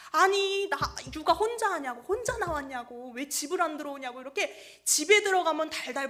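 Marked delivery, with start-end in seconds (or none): 0.1-4.2 mock nag, bursting in loud then easing; imitated nagging. Pastor's wife left alone with childcare, imitated nagging. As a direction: pester with a retold string of complaints. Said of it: "달달달달 볶으시는 거죠".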